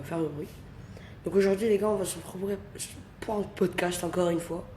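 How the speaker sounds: talking softly so nobody wakes; hushed voice. Real, not acted. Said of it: "je peux pas parler fort".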